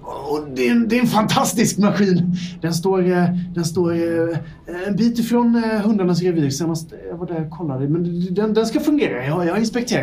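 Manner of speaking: a flustered lab mouse apologising for being late; scrappy little mouse. Acted. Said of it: "en liten scrappy mus".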